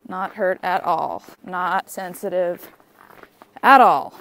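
slow mock-wounded, ending loud; drawn out fake hurt feelings; sarcastic. Dog ignored her, joking.

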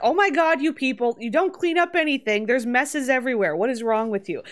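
hammed-up outraged complaint; mock complaining neighbour. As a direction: scold the whole family for their mess. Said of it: "She's like".

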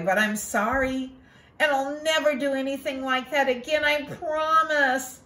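put-on boy Ko confessing his lie to his mother; contrite little boy. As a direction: own up like a sorry kid.

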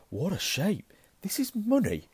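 high, loud amazement; amazed. Acted. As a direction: marvel at the strange coin. Ron amazed by fifty pence.

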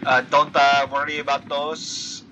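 light mock Filipino accent, imitating Pacquiao; Manny Pacquiao accent. Friend redoes his game line as Pacquiao, mock Filipino accent. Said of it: "I gotta talk like, uh, Manny Pacquiao".

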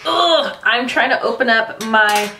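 straining while twisting a stuck lid; grunting with effort, pushing out the words; opening a stuck jar. Real, not acted. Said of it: "I don't know why it's not open".

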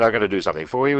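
light mock Hungarian accent, a promise. Conductor backstage promising the writer a favour, in a light Hungarian accent. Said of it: "he said, with his Hungarian accent".

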